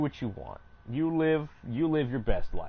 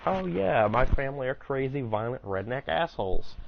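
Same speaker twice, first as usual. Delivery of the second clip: sarcastic inner voice; 3 semitones higher than usual. Retold or imitated. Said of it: "I have the thoughts of".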